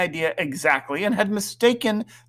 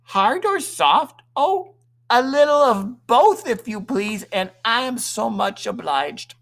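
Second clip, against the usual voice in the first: gracious company manners; 7 semitones higher than usual. A narrator's reading. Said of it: "bowing with decided ease and grace".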